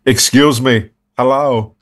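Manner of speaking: a light Christopher Walken impression, quirky; quirky Walken-style greeting, lightly done. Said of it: "whenever I do his voice".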